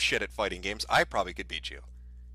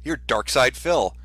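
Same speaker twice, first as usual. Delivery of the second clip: gushing fan; 3 semitones higher than usual. Acted. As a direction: gush like a fan meeting an idol. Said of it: "Do you think anybody says".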